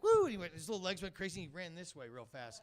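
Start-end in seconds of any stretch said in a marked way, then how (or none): 0.0-0.2 high, loud "woo"; imitated whoop. Little man after a bump, imitated high whoop. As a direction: let out a quick mock whoop. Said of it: "and he's like".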